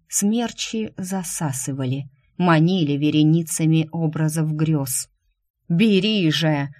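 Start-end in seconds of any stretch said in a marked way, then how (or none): 5.7-6.7 slow, loud, commanding promises; tempting deity. Acted. Dark deity tempts Shu with power, slow looming voice. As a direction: press the offer like a god bending her will. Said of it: "Голос божества взвился".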